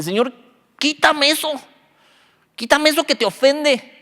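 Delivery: high-pitched mock pleading; pleading prayer. Believer praying for a fleshly desire to be removed, imploring. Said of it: "orando tú mismo así".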